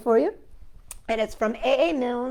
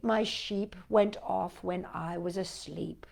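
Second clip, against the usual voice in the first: hushed, breathy whisper; 4 semitones lower, 7 dB quieter, slower than usual. Acted. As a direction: drop to a secret whisper. Whispered lines in the poem.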